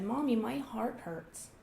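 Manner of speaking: put-on slow, pitiful child's complaint; a mock-hurt little boy, drawn out; faking child. Son telling Mommy his heart hurts, mock pitiful. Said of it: "he was kind of faking it".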